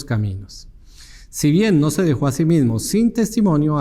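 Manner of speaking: projected, measured Bible reading aloud; formal public reading of scripture. Acted. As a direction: read the verses out firmly to a congregation. Reads the Bible passage aloud.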